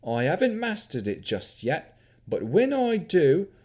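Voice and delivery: put-on young wizard's cheeky country yokel accent. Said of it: "His accent mimicked that of a country yokel".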